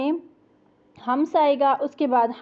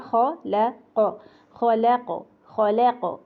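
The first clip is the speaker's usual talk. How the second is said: ख ल क said one letter at a time, slowly; broken into letters; much slower than usual. Shown as a demonstration. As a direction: split ख ल क apart slowly. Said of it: "तोड़ तोड़ के प्रैक्टिस".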